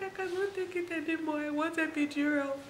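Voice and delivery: high, strained begging for relief; high, pained cry for the epidural; desperate plea. Retold or imitated. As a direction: plead as though the pain has broken you.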